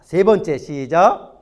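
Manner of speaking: projected count-in to the congregation; calling out a cue. Real, not acted. Cueing congregation to read together. (힘주어 구령하듯)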